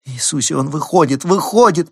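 rising into a high, loud tearful cry; tearful babble. A narrator's reading. Elizabeth in labour cries to Robert, tearful rising babble. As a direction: babble it as the tears break through. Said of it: "пролепетала Элизабет и опять заплакала".

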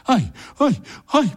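high yelps while running; frightened cries. A narrator's reading. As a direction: yelp in fright as you flee. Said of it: "покрикивал только дед".

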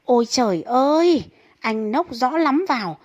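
put-on wife yelling at husband home drunk at midnight; wife scolding loudly. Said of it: "chị vợ gào lên".

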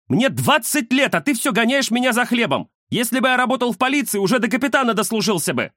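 высокий возмущённый голос, под конец быстрее; выпалить обиду деду; обиженный юноша. Acted. Внук спорит с дедом. (внук возмущённо спорит с дедом)

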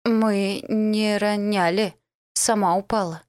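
slow, halting, faltering guard; slight stammer. Acted. Scared guard stammering an excuse to the dark lord. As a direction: stumble over the words in fright. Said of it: "слегка заикаясь".

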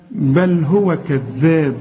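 slow recitation of بل هو كذاب, clean l in بل; clear lam. Shown as a demonstration. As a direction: give بل a clear l with no nasal hum. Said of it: "ما تغنهاش".

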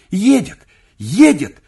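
high, very loud alarmed cries; frightened shouting. A narrator's reading. Servants rush in shouting that the master has come. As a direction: burst in yelling the news. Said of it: "кричали они".

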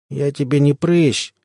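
slow, drowsy protest; sleepy. Acted. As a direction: mumble it half asleep. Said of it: "сонно сказала".

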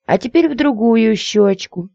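high, squeally coquette; squealing lady. A narrator's reading. Lady to her suitor, squealing for kisses. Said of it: "Что ж так визжать-то?".

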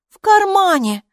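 «В кармане!» thrown back high and loud in scorn; mock the word «кармане» back at him; mocking repeat. A narrator's reading. Hilla mocks Kapo's pocket idea with a high, loud «В кармане!». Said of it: "насмешливо повторила Хилла".

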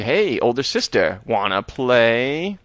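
slow, drawn-out sinister toy invitation; lightly voiced evil doll teasing; creepy dummy taunt. Slappy taunts sister.

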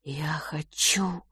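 slow whisper; quiet exhale. Acted. Brother quietly breathes out his answer, whispering. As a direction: breathe it out barely audible. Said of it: "тихо выдохнул Филипп".

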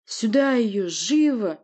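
loud, high, impatient command; insistent order. Acted. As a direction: demand it urgently. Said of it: "не унимался толстый княжич".

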